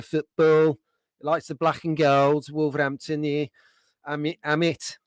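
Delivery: hammed-up Black Country football fan; lightly mocking Black Country twang; terrible Black Country accent. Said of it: "that was a terrible, terrible Black Country, uh, accent".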